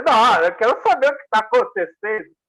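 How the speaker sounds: retelling own annoyed protest; retold indignation. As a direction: insist on being told, lightly indignant. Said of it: "Eu fiquei muito bravo".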